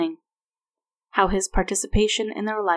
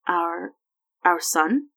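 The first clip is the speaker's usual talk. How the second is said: stammering; much slower than usual. Acted. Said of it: "he stammered".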